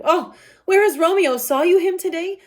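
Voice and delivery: high, loud anxious asking; a mother fearing for her son; worried mother. Acted.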